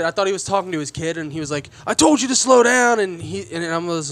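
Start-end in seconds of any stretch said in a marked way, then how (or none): 1.9-3.0 angry scolding. Retold or imitated. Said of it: "he's yelling and cussing".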